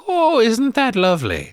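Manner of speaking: high-pitched cooing leprechaun; hammy leprechaun delight; leprechaun impersonation. Retold or imitated. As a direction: coo over treasure in a high put-on voice. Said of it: "his Irish accent and leprechaun impersonation".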